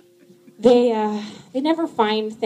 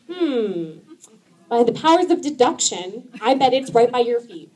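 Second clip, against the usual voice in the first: sarcastic detective tone. Retold or imitated. Sarcastic parenting.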